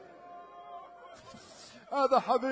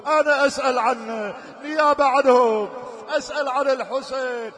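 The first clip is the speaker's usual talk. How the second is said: rising preaching; 6 dB louder than usual. Acted.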